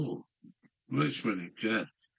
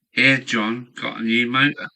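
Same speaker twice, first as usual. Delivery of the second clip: calling out; 7 dB louder than usual. Pretend. Calling out to John.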